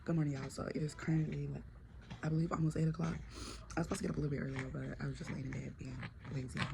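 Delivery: drowsy, lazy voice just out of bed; barely awake, mumble it from bed; sleepy morning murmur. Real, not acted. Vlogger greeting viewers from bed, sleepy murmur.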